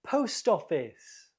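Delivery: "Post office" with POST stressed; stress on first word. Shown as a demonstration. Teacher confirming the answer, "Post office" stressed on "Post". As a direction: lean on "Post", let "office" fall. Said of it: "The first word is stressed".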